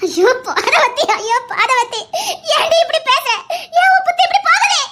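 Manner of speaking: mother rising into an angry shout; scolding mother. Acted. Mother scolding her daughter, rising to an angry shout.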